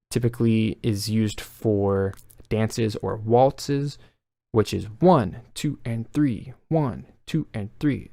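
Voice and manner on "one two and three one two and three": three-four count with "one" stressed; waltz count. Shown as a demonstration. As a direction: lean on each "one" like a waltz. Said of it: "you want the ones and sometimes the threes to have the emphasis".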